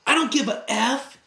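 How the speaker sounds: a stranger snapping back at the surfer, mock angry; imitating a snap. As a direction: toss it back like a mild retold outburst. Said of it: "turned around and snapped".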